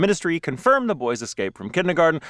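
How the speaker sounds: badly faked Russian accent; terrible Russian accent. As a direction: read it out in a clumsy mock Russian accent. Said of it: "That was a terrible Russian accent".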